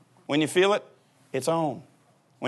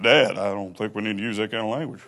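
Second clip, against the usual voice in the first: lower, softly scolding son; son Luke; 9 semitones lower, 4 dB quieter than usual. Retold or imitated. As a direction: play the sensible son correcting his dad. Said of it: "he goes".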